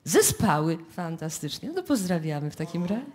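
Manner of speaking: ordinary delivery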